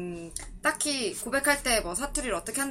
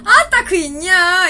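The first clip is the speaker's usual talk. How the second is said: slow, loud, higher Jeolla scolding; loud Jeolla dialect sigh of exasperation at a friend; 7 semitones higher, 11 dB louder, slower than usual. Shown as a demonstration. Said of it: "친구가 내 말 너무 못 알아보고".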